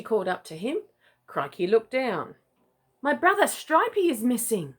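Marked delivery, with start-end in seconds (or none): 3.0-4.7 higher worried little chick. Acted. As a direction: bezorgd kuikenstemmetje. Chick Leggy reports missing brother.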